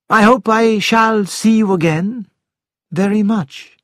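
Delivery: sincere. A narrator's reading. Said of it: "sounded as though he meant it".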